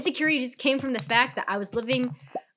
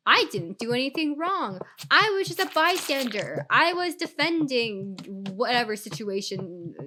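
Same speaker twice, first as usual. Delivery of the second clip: mock innocent protest. Imitating the dude posing as a bystander, mock innocent. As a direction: plead innocence in a hammed-up imitation. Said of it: "positioned yourself to be like".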